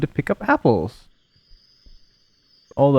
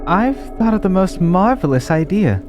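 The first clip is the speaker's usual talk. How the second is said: a hint of a sweet, caring mother; doting mother voice. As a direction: read it like a loving mom.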